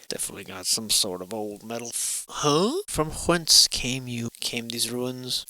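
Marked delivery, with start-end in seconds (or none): 2.9-5.5 slow, hushed mock-poetic question; mock solemn musing. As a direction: muse slowly like a grave documentary voice.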